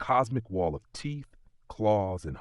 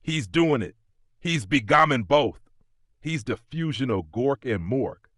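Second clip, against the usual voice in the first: high, loud devoted cries; ecstatic crying out; 5 semitones higher, 5 dB louder than usual. A narrator's reading. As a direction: shout with fanatic joy at the miracle. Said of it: "cry out in devotion".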